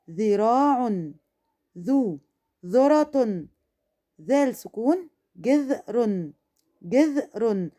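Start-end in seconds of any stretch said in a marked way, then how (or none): 5.4-7.7 جذر with ذ closing the first syllable; joined closed syllable. Shown as a demonstration. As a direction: run ج and ذ together as one syllable in جذر, slowly. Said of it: "نطقت الذال مع الجيم مقطع على بعض". (جذر والذال الساكنة مع الجيم مقطع على بعض)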